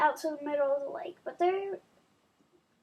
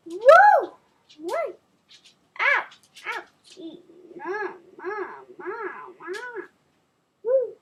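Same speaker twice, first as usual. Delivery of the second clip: loud high whoops; excited whooping; 8 semitones higher, 9 dB louder, slower than usual. Real, not acted. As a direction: cheer and howl after the scare. Reacting to scary ending.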